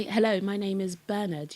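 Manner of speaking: British pronunciation of Bernard, modelled; English-accented hello, stress at the front of Bernard. Shown as a demonstration. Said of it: "English accent".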